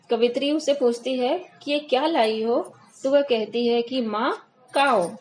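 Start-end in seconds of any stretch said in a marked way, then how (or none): 4.0-5.1 put-on "काओ" drawn out slowly, a toddler's k in place of kh; slow baby-talk lisp. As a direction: slowly mimic a little girl offering food. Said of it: "बच्चे कैसे तोतली भाषा बोलते हैं ना". ("माँ काओ" धीमे, तोतले अंदाज़ में)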